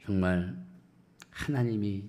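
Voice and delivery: low, halting sigh of discouragement; weary lament. Acted. Believer wondering why life is so hard, wearily lamenting. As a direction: let it out heavily, with pauses.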